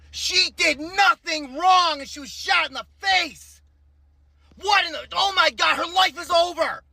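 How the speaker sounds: outraged shout. Real, not acted. Outraged reaction to shooting video.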